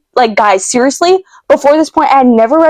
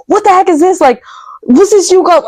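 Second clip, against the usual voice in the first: high-pitched retold bewilderment; mildly frantic, high questioning; bewildered disbelief; 8 semitones higher than usual. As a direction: re-enact a stunned question to God, pitched up. Retells her stressed questioning of God.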